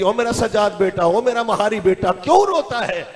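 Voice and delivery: mildly anguished mother figure; retold anguished cry. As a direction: comfort a weeping nephew in lament. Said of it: "तड़प के कहती".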